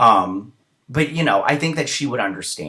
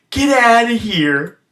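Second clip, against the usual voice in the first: acted shove-off; 12 semitones higher, 7 dB louder, slower than usual. Brother shoves attacker off.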